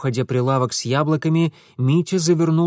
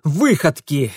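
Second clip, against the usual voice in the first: shouting; 6 semitones higher, 7 dB louder than usual. A narrator's reading. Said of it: "проорал Митя".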